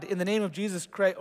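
cried out command. Acted. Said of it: "He cried".

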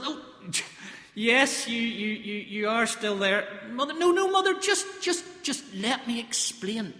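put-on flustered young husband, stammering; a bumbling new father breaking news; nervous Joseph on the phone.

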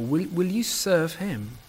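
pleading. Retold or imitated. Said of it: "Joshua pleads with his people".

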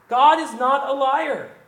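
slow, loud and firm; emphatic declaration. Real, not acted. Preacher to congregation, slow loud insistence. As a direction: hammer home that God never lies.

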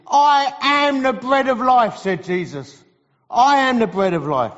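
emphatic, declarative gospel preaching. Real, not acted. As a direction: drive each phrase home to the congregation.

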